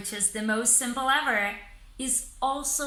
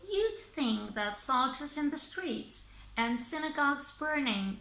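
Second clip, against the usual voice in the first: reading aloud in thought groups. Shown as a demonstration. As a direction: read it phrase by phrase, pausing at each group. Reads a demo fragment aloud.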